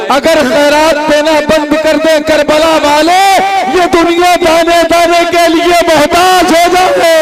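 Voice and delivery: high, loud impassioned recitation; full-force declaiming. Acted. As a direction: throw the couplet out with everything.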